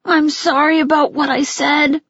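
mild tearful apology, barely holding it together; child apologizing to his mother, mildly tearful; starting to cry. Acted. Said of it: "I started crying".

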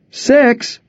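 very high, startled question; can't believe how soon; shocked. Acted. Neighbor shocked at time.

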